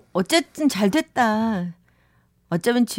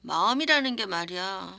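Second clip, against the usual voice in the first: put-on drunk voice. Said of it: "술에 취한 목소리로".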